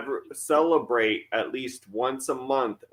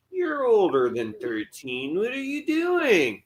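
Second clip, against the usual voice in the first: drawn-out, rising mock disapproval; mock scolding; 6 semitones higher, slower than usual. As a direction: challenge an overgrown trick-or-treater, slowly. Voices people challenging a bearded trick-or-treater.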